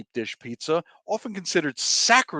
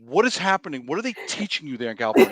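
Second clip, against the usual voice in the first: higher, fast playful outrage; mock upset; 4 semitones higher, faster than usual. Real, not acted. Host teasing cohost about California pizza with mock outrage. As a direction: act scandalized over pizza. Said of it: "I'm getting upset now".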